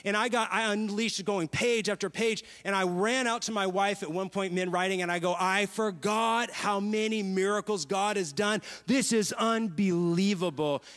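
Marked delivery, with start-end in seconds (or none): 5.4-10.8 amazed exclaim. Retold or imitated. Running out to his wife, calling out in slow amazement. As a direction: burst out in wonder at the memories. Ran out to my wife mid-writing.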